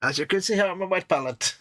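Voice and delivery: put-on glamorous old Hollywood star, mid-Atlantic accent. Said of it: "I shall now start talking with my mid-Atlantic accent".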